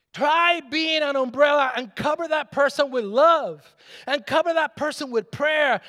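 fiery preacher voice; preaching. Acted. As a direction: preach it out with full force. Preaching at full force.

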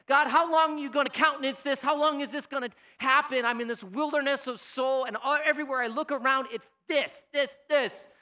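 loud, high-pitched acted cry to God; exasperated plea. Prophet questioning God about violence around him, exasperated plea. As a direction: cry out in frustrated complaint.

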